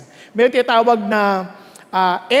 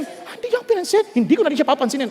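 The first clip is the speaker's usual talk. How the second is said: sulky snub; 4 semitones higher, much faster than usual. Retold or imitated. Imitating a snubbed person.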